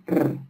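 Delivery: "r" as a rolled sound on its own; isolated phoneme. Shown as a demonstration. Teacher explaining blended syllables, isolated phoneme. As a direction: trill "r" without any vowel. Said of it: "tienen en el medio el sonido".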